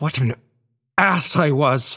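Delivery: fiercely vehement, forceful voice. Hamlet, speaking with his mother, exclaims vehemently.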